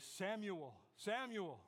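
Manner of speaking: God calling. Acted. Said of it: "and God says".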